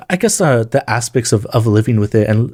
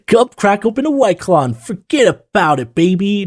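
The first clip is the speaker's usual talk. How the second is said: higher, lazy put-on voice; mock party bro; 10 semitones higher than usual. A fake fan urging Kristen to crack a White Claw, in a high teasing voice. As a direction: coax her to drink it off in a silly high voice.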